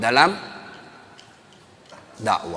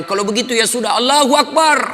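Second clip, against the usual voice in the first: high, loud call of Allahu Akbar; shouted from the back; 11 semitones higher, 5 dB louder than usual. Retold or imitated. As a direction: yell it out from the back row, higher and louder. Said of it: "Tiba-tiba berteriak anak muda".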